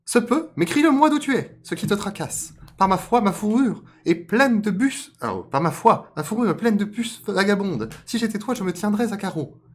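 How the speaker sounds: very high, loud cartoon voice; sassy rabbit. Rabbit telling off the flea-ridden fox, high and loud. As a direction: scold in a high squeaky pitch.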